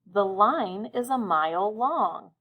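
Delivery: slow, clear dictation of the sentence. Shown as a demonstration. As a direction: read it slowly so children can write. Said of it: "I'll say it again, listening carefully".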